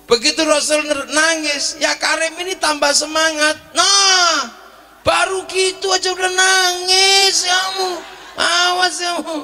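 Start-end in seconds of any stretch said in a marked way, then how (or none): 3.8-9.4 mocking taunt. Pilgrim taunting the weeping man, high mocking jeer. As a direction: gloat at him for crying.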